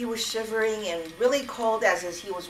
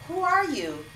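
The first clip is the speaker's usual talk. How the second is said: calling out; 9 semitones higher, 4 dB louder than usual. Acted. Stranger voice calls out.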